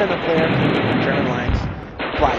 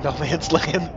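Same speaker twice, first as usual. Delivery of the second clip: laughing; 5 semitones higher, slower than usual. Real, not acted. Laughing at G D smoking.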